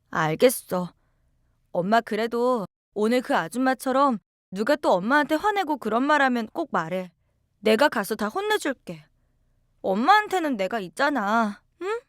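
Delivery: put-on a child asking her mother, upset; a hint of a worried young girl; young daughter. Narrator voices child self.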